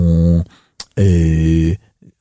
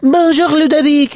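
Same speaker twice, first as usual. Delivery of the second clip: mad exam-tape voices; 14 semitones higher than usual. Retold or imitated. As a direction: mimic a GCSE audio tape. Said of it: "like these mad voices".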